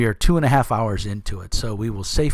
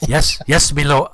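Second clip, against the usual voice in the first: eager servant; 4 semitones higher, 5 dB louder than usual. Acted. Bandit bows to new boss.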